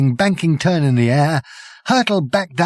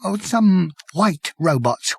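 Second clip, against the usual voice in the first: slow, hoarse, high whisper; 5 semitones higher, slower than usual. Acted. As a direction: rasp it out in a whisper. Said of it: "whispered the man hoarsely".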